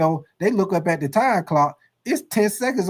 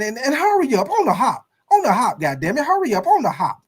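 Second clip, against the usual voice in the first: wailing coach; 5 semitones higher than usual. Acted. Coach scolding, cry heard.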